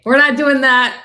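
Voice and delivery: loud, drawn-out protest through laughter; laughing protest. Real, not acted. Michigander objecting to accent tease, laughing protest. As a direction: shut the teasing down, laughing.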